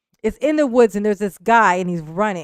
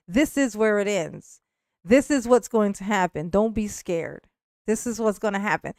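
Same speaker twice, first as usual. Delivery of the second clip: imitated calm, matter-of-fact killer; calm explaining. Pursuer explaining the end to his prey, calm. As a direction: explain it evenly, as if to soothe him. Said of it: "this is how he's talking".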